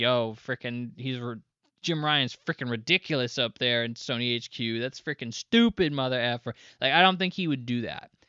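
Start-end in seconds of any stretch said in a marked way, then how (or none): none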